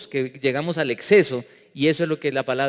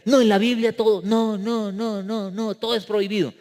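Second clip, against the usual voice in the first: put-on higher-pitched teenager protesting; put-on youngster's objection, insistent repeated no; complaining schoolboy; 4 semitones higher than usual. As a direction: imitate a student whining that everything's banned. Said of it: "como me decía un muchacho bachiller".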